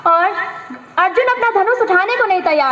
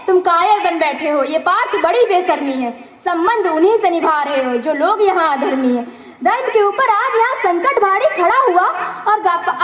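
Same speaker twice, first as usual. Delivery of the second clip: rhythmic verse delivery with lilting line ends; poem recitation. Acted. Student reciting a Mahabharata poem to an audience, rhythmic recitation. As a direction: recite the epic verse in a steady, measured beat.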